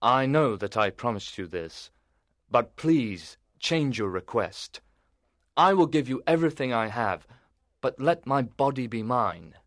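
a knight begging for release; unhappy knight. A narrator's reading. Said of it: "the knight answered unhappily".

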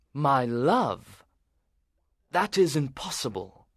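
a knight recoiling from the idea; appalled knight. A narrator's reading. Voices the knight.

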